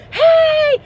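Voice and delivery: high, loud, slow preacher holler; TV preacher shouting. Retold or imitated. TV preacher encouraging viewers, loud slow sermon shout. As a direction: preach it at full volume. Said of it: "favorite T V preacher ... who goes".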